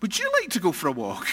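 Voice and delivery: cheeky parroted reply; mocking echo. Shown as a demonstration. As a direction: throw the question straight back at her. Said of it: "Don't answer with".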